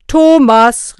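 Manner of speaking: high, drawn-out shout of the name; loud call. A narrator's reading. Knecht Ruprecht summoning the boy, calling loudly. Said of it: "rief Knecht Ruprecht laut".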